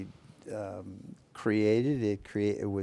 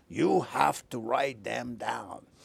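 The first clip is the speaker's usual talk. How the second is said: put-on thick French accent; 3 semitones higher than usual. Retelling what the committee founder told him, Jean-Paul Cariani's thick French accent. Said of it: "he had a very thick French accent".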